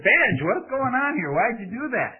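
high-pitched, incredulous questioning; dismayed parent. Retold or imitated. Father retelling his question to his carsick toddler, high and dismayed.

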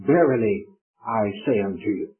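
understated solemn feeling, settling low; deep emotion. Retold or imitated. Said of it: "with deep emotion".

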